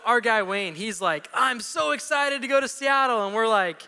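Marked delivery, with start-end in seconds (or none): 1.3-3.3 excited tourist. Retold or imitated.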